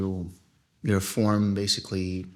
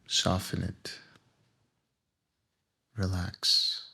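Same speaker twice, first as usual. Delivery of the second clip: guided meditation. Acted. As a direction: lead them gently into relaxation, phrase by phrase.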